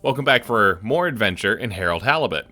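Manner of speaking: a light touch of a cheery cowboy host; cowboy host intro. Acted. Streamer welcoming viewers back, lightly cowboy host. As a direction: greet viewers like a folksy cowboy. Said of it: "I'm Cowboy Hat Matt".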